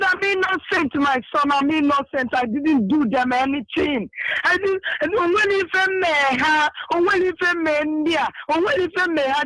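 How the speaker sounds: high, tearful protest with a sob breaking through; imitating a weeping woman insisting she is innocent; crying plea. Woman crying to the leader that she is innocent, high tearful wail. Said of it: "She was crying".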